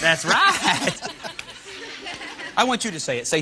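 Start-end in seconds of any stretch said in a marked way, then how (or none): 0.0-1.0 imitating a Texan's drawl; mock Texas drawl. Host echoing the contestant for laughs, mock Texas drawl. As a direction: playfully echo the Texan twang.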